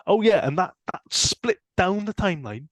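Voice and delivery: exaggerated high Welsh accent; hammed-up Welsh impression. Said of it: "horrible Welsh accent".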